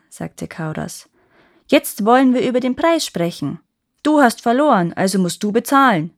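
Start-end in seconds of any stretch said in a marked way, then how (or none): 1.7-6.1 put-on demanding boy.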